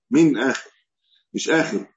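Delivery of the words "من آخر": "من" hit firmly before "آخر"; stress on من. Shown as a demonstration. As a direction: punch the word "من" to correct the wording. Corrects the wording, stressing the added word.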